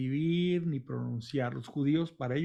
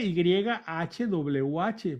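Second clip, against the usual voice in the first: letter by letter, drawn out; slow spelling; much slower than usual. Shown as a demonstration. Teacher spelling the unpronounceable name, slow letter by letter. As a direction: spell H W H very slowly.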